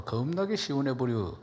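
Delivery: lightly imitated Jeolla speech; Jeolla dialect. Shown as a demonstration. Preacher translating standard Korean into Jeolla dialect. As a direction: say it with a Jeolla lilt. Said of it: "전라도 말로".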